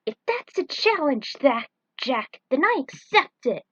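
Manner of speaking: high, loud playful challenge; cocky acceptance. Acted. Falcon answering Jack's race challenge, cocky and loud. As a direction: toss the dare right back.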